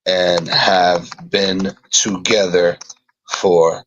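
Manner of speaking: slow, halting word-by-word delivery; spaced-out words, composing as you go; slow dictation. Real, not acted. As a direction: say it as you write it down. Writing down the story while speaking.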